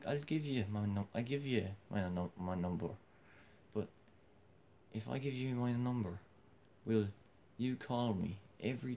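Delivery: put-on Irish lilt, starting high and loud; fake Irish accent. Woman agreeing to give her number, in a fake Irish accent. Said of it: "I just wanted to do the fake Irish accent".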